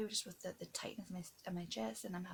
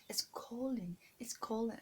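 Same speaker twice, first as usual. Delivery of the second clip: higher, lightly mimicking how they coach her; "Colin" said the way they tell her to, a touch higher; mock teaching accent; 4 semitones higher than usual. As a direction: imitate their forced accent coaching. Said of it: "trying to teach me how to say".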